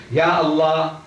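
Ya Allah with Ya leaned on first; opening exclamation. Shown as a demonstration. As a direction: call Ya Allah, stressing the opening Ya. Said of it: "we begin with an exclamation".

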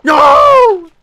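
very loud, high acted-out no; retold yell. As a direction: yell it at the dog, escalating. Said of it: "And I'm like".

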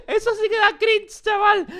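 high, loud shout of disgusted glee; a cringing yell at the screen; cringed-out shout. Real, not acted. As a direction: yell it like the clip made you squirm. Reacting to a cringe clip.

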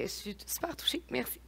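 whispered through tears; barely a breath, moved; tearful whisper. Real, not acted. Moved to tears after tribute.

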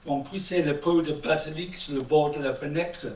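French read with a put-on, somewhat rough British accent; mock British accent. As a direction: read the whole text as a brusque Englishman speaking French. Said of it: "excusez-moi mon accent, britannique un peu, un peu brutal".

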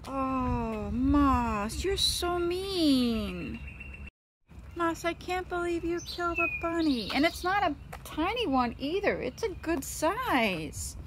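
wounded, pleading complaint; upset scolding. Real, not acted. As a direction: whine in disbelief at the cat. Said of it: "I'm so mad at you".

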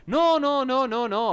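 flustered mock technician protest; high loud protest. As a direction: cut him off in a rush. Protesting to Jasper in role.

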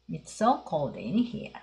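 "It's so cold here." said very slowly, word by word; slow model reading. Shown as a demonstration. Teacher slowly modelling the phrase for the class. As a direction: spell it out slowly for learners to copy. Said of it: "これもちょっと強調ですね".

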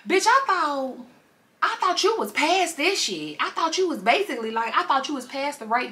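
whiny fiance. Retold or imitated. Fiance scolds Ani over the story, high whine. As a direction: complain he's embarrassed. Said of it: "And Dean like".

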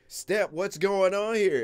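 high, loud, slow mock outrage at the mess; hammed-up homeowner squawk; mock shocked owner. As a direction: play the owner walking in and finding poop. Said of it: "you be like".

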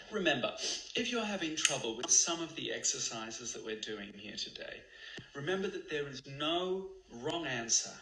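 soothing guide reminder; meditation voice. Acted. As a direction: reassure the listeners gently.

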